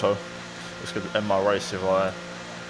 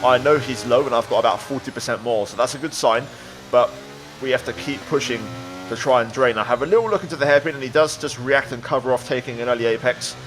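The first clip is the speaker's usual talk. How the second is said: motorsport commentator. A narrator's reading. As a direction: lively race commentary voiceover. Race narration over gameplay.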